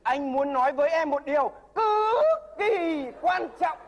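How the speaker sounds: slow, earnest repeated declaration; solemn echo. Shown as a demonstration. The nervous suitor repeating the mentor's line, slow and solemn. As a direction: copy the teacher's grave tone. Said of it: "repeats the demo".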